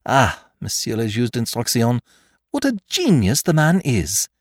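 high, loud rapture; enthralled by the thief's genius; carried away. A narrator's reading. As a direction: gush with admiration. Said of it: "allowing yourself to be carried away".

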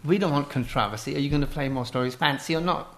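lightly put-on English accent. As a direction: play a mock-fancy English game host. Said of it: "answer in an English accent".

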